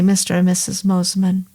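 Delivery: "Mosman" said as two syllables, MOSS-man; doctor getting the name "Mosman" slightly wrong; mispronounced name. A narrator's reading. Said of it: "He pronounced it Mosman".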